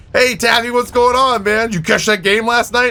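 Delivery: high, upbeat impersonation of a viewer; chirpy mock fan hello; eager viewer greeting. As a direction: greet the streamer eagerly, pitched well up. Voices a newly arriving viewer.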